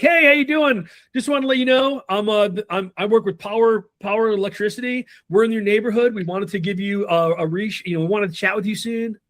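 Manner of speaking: high, bright scripted salesman; sing-song pitch way up, on autopilot; canned door knocker. Retold or imitated. Rep knocking on a neighbor's door, sing-song high. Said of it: "people knocking the door".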